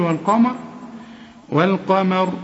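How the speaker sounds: والقمر with light, unemphatic meem; thin meem. Shown as a demonstration. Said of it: "رقق الميم دي أرجوك".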